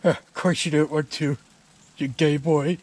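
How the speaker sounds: ranting Scottish brogue; Scottish accent. Acted. A mad Scotsman insults the homeowner, in a Scottish accent. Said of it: "doing that Scottish accent".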